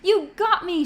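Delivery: loud, high, hammed-up cry of a shot player; playful call. A narrator's reading. Tanya calls out to the others as she fakes being shot, loud and playful. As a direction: call out like you've been hit in a game. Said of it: "she called".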